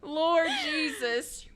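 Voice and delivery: slow whispered exclamation; breathy exclamation. Real, not acted. Speaker recovering from laughing, slow whisper. Exasperated after story.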